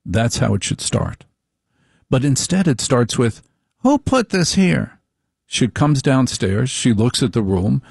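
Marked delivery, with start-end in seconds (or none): 3.8-5.0 high, slow mock wife voice; nagging wife. Husband mocking his wife's morning complaint, high and whiny.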